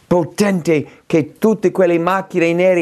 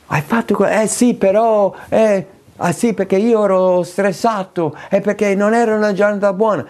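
higher, hurried excuse-maker voice; mock excuses; 4 semitones higher than usual. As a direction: rattle off lame excuses to dodge the blame. Acting out an unrepentant excuse. (scuse affrettate, voce più alta)

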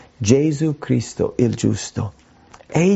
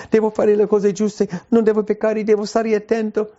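anxious rule-keeper; 8 semitones higher than usual. Acted. Voicing dutiful anxious believer.

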